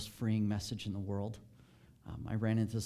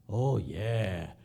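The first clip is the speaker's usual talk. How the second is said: long, drawn-out gleeful yes; relishing it, a little louder and lower; delighted yes; 4 semitones lower, 4 dB louder than usual. Retold or imitated. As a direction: say it through a huge grin. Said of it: "this grin from ear to ear".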